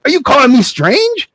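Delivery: high teasing voice with laughs; joking stranger cracking up; mocking dude laughing. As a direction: laugh at the boy and his cow. Stranger mocks Jack.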